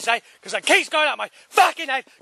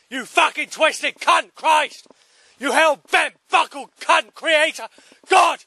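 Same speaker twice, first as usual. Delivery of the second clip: slow, hammered insults, rising to a yell; angry shouting; 3 semitones higher, slower than usual. Real, not acted. Man cursing the creator aloud on his walk, angry yelling. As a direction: raw real anger thrown upward.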